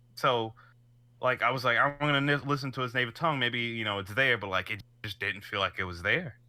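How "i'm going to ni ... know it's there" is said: usual speaking voice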